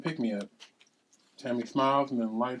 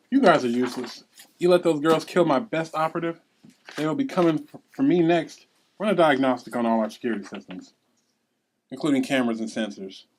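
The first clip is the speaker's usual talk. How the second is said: loud scolding of useless staff; angry boss rant; 6 dB louder than usual. Acted. Boss berating her staff.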